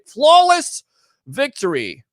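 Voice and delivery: shouted game announcer line; Mortal Kombat call. Retold or imitated. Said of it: "it's like Mortal Kombat".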